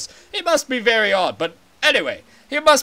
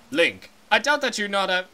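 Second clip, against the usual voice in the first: lower, grave royal voice; a deep and solemn giant fish king; stately Zora king; 3 semitones lower, 3 dB quieter than usual. Acted.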